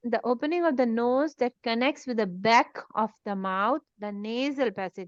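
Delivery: spells out the definition word by word, slowly; slow dictation. Shown as a demonstration. Teacher dictating a definition to students, slow and deliberate.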